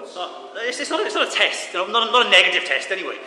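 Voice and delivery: high, loud, quick reassurance; excited reassurance. Real, not acted. Reassuring congregation, laughing.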